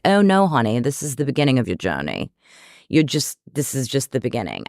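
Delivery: lightly put-on English accent, a touch of therapist calm; a hint of a British therapist, gently correcting. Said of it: "let's see if I can conjure up some of the accent".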